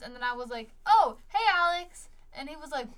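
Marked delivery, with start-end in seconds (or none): 0.9-2.1 much higher, louder imitated greeting; mock startled recognition. Donut shop worker recognizing caller Alex, mock startled. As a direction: act caught out, pitch jumping up.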